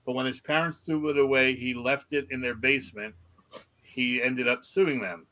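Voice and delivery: measured article read-out; news story read aloud. Acted. Podcast host reads odd news to co-hosts, news read-out.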